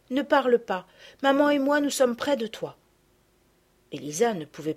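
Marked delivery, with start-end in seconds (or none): 0.1-2.8 put-on higher girl's voice leaning on parle; lightly voiced tender girl. A narrator's reading. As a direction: reassure her she is not alone. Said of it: "lui dit-elle".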